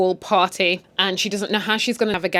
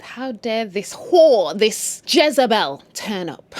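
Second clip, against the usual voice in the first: slow, drawn-out mock outrage; scandalised; slower than usual. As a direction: drag each word out in judgement. Guests glaring at the mistress.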